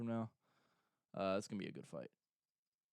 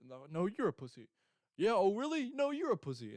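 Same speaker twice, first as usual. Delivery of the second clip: a much higher, louder mocking retort; mock comeback; 8 semitones higher, 6 dB louder than usual. Two fighters trading insults, one retorting in a high mocking voice. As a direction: toss the insult back in a squeaky sneer. Acted press conference quarrel.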